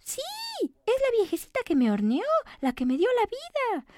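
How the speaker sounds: high little cookie, eager; squeaky cookie pointing out her baker; high cookie voice, brightened. Acted. Cookie answers crow.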